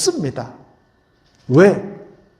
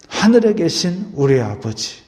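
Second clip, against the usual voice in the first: prayerful. Shown as a demonstration. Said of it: "이렇게 기도하십시오".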